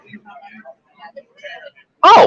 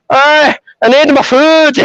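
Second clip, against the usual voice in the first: higher, slow, drawn-out demand; hammed-up pushy pet voice; demanding cat; 6 semitones higher, slower than usual. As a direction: play a cat insisting on breakfast. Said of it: "And he'll, like".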